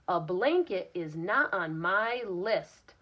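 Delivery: sassy reply. Acted. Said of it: "a little bit sassy in her reply".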